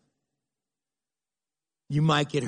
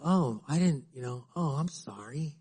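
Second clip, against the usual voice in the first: soft apology; 2 semitones lower, 6 dB quieter than usual. Retold or imitated. Voicing other person's apology.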